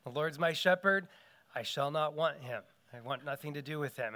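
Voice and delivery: lightly voiced kid's misreading of the psalm; childhood misreading. Pastor recalls his boyhood misreading, a light childlike take. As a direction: play it as his younger self getting it wrong. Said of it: "I used to think that".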